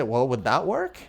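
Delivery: mild, easy question rising on "work"; reasonable man tonality. Shown as a demonstration. Salesperson asking the prospect again, mildly reasonable. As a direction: suggest it lightly, no pressure. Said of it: "the reasonable man tonality".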